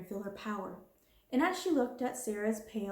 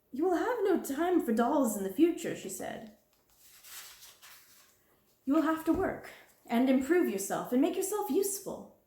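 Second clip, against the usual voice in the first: higher, louder, cold commanding voice; harsh headmistress; 7 semitones higher, 4 dB louder than usual. Acted. Harsh headmistress. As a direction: headmistress telling the orphan she must work, harsh. Miss Minchin lays down the law.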